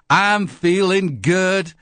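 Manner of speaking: new anchor Bill Jarvis bursting with excitement on air; thrilled new newsman. Pretend. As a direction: gush like a giddy newsreader on day one. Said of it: "he's thrilled with his job".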